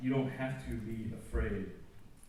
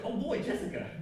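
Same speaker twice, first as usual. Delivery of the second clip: high, lovestruck gush; swooning over her name; smitten sigh; 13 semitones higher than usual. Retold or imitated. Young man gushing about his new girlfriend Jessica. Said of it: "I was just like".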